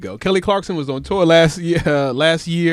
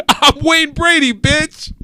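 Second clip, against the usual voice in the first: Wayne Brady tough guy; 8 semitones higher, 5 dB louder, slower than usual. Retold or imitated. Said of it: "come out of character".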